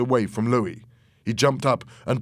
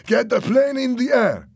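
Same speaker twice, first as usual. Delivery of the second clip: very high, loud command; acted urgent shout; urgent shouted order; 13 semitones higher, 6 dB louder than usual. A narrator's reading. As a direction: yell it to the pilot. Urgent counter-order in a quarrel.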